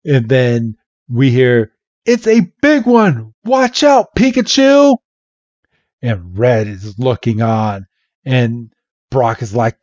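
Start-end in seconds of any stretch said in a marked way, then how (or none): 2.0-5.0 high, urgent mock shout; hammed-up alarmed warning. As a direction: call out danger across the arena. Warning shout in retold battle.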